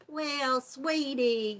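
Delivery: a mock patronizing "Well, sweetie"; condescending. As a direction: talk down to her like she knows nothing. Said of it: "it was really a put down".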